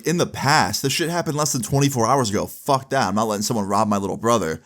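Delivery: mildly acted, quick-moving indignation; retold outrage. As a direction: imitate a protective brother, worked up but not shouting. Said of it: "And he's tweaking".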